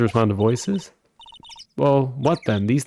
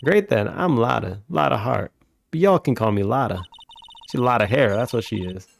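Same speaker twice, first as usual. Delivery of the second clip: lightly voiced Southern country woman, scolding; Southern photographer. Lotta introduces herself.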